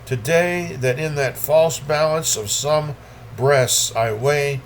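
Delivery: solemn poem read aloud, phrase by phrase; poetry reading. Acted. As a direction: recite it line by line, stretching the stressed words. Reads third poem aloud.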